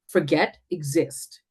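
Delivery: ordinary talk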